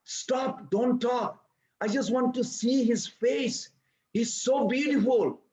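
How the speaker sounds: a mother too charmed to scold; doting mother. Retold or imitated. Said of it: "Mother Jashoda said to Mukhara".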